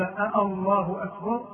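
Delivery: "الله" opened with a stretched "آه"; questioning long hamza. Shown as a demonstration. Teacher explains the faulty takbir, long questioning first vowel. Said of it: "كأنه قال".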